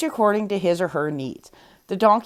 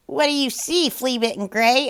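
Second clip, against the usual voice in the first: higher, curious rooster; rooster asking; 5 semitones higher than usual. A narrator's reading. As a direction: call up to the donkey curiously. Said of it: "asked the rooster".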